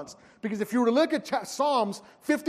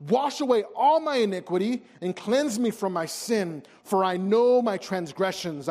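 pleading prayer reading. Acted. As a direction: read it as a heartfelt plea for mercy. Reads David's psalm of confession.

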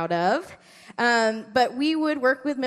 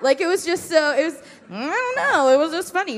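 laughing at the memory; 8 semitones higher, 7 dB louder than usual. Real, not acted.

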